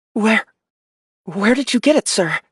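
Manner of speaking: the question trips out in shock; startled officer. Acted. Ian startled by the logo.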